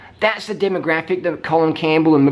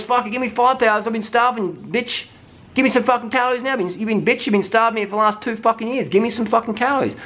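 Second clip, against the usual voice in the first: high, fast furious demand for food; a starved body finally yelling for calories; hungry body ranting; 8 semitones higher, faster than usual. Retold or imitated. The starved body yelling at its owner, high and furious.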